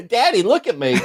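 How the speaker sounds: campy gay voice. Pretend. Mimicking same TikTok star.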